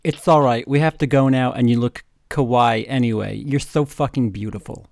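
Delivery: sultry voice with a hint of Japanese accent; lightly seductive Japanese-accented voice; sexy Japanese voice. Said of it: "in a sexy Japanese voice".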